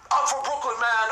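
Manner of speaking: puffed-up frat-guy tough talk, imitated; mock bravado. Imitating a meathead's tone of voice, mock bravado. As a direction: do a fake tough guy throwing his weight around. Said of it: "that's bravado right there".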